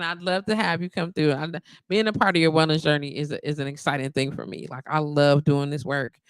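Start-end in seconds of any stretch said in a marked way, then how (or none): none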